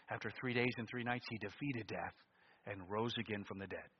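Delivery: gentle pulpit hush; hushed earnest preaching. Acted. Quiet, intimate preaching.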